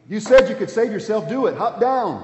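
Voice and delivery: loud, high jeering challenge; a crowd's sneering shout; mocking taunt. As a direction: throw the dare up at him with scorn. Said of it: "they're taunting him".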